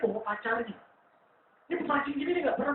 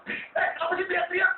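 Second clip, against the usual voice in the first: higher, irritated dad calling out over the noise; father annoyed at his son's yelling, higher and sharper; dad scolding; 5 semitones higher than usual. Retold or imitated. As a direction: snap at the kid for yelling, a bit raised. Dad scolds the screaming kid.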